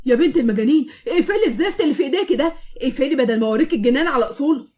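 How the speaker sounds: loud, half-laughing threat; half-laughing yell. Acted. Soaked husband yells at his wife, laughing. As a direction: shout at her through a laugh.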